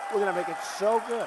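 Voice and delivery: rattled off fast. Shown as a demonstration. Speaker repeats the promise to the crowd, quickly. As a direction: hurry through the promise again.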